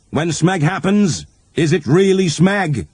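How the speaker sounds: mock serene guru. Buddhism punchline, guru voice.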